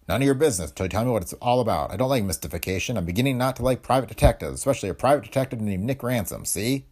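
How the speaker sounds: put-on testy young husband, pushing back; annoyed husband. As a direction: warn off the nosy detective. Pete angry at detective.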